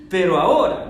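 "Pero ahora" with "ahora" loud and held; stress on AHORA. Shown as a demonstration. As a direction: hit the word "ahora" hard. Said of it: "¿Ven el énfasis?".

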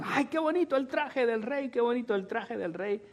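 mock flattery. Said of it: "pero todos alababan".

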